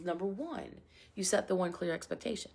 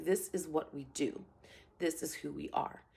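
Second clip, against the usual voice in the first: lower, softer calm delivery; calm statement; 3 semitones lower, 4 dB quieter than usual. Shown as a demonstration. Coach modelling a rule to students, calm and low. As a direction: state it calmly, without arguing. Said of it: "you're just calmly saying".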